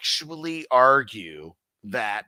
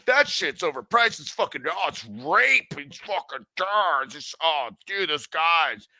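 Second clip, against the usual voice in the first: mock complaining critic. Mocking critics of prices.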